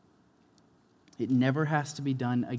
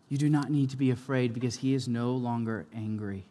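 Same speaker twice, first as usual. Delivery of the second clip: normal talking voice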